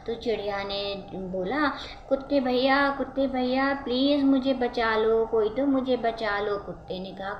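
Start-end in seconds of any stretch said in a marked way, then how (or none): 2.1-6.6 high, pleading bird voice; a small trapped bird calling for help; pleading little bird. Acted. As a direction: beg the dog for help, voice up high.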